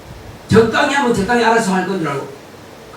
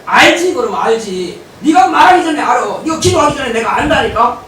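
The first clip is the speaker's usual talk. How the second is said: God shouting back that he already knows. Acted. God voiced answering, shouted.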